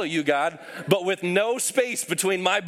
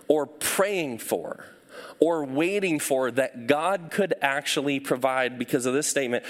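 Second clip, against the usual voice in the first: reflective invitation; 3 semitones lower than usual. Acted.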